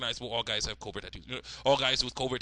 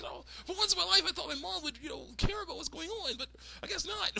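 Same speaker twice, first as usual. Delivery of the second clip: Candace. Retold or imitated. Daughter let down by uncaring mom, high wounded complaint. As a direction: complain in a squeaky put-on voice. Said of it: "I'm like".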